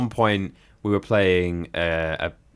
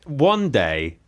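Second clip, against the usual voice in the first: ordinary delivery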